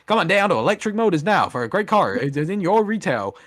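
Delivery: lightly voiced old-time radio announcer; a hint of a fifties car ad pitchman; 1950s announcer. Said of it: "old nineteen fifties, like, announcers".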